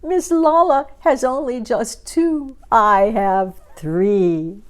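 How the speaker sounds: high squeal of glee, last words drawn out slow; gleeful yell. A narrator's reading. Gertrude gloating over three feathers with a high squeal. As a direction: squeal it like a giddy bird. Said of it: "and then Gertrude yelled".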